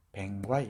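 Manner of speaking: 뱅과이 repeated, falling; 뱅과이 with ae vowel and long i; Jeolla dialect pronunciation. Shown as a demonstration. Lecturer repeating the dialect form: 뱅과이 again. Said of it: "이렇게 있습니다".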